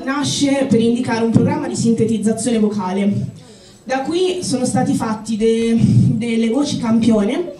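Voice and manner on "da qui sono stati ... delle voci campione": out of breath. Real, not acted. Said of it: "scusate il fiatone".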